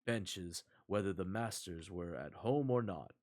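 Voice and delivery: measured storybook reading, restrained and even; story narration. A narrator's reading. Narrator reading a fairy tale to stream viewers, measured narration. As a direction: read a fairy tale aloud at an unhurried pace.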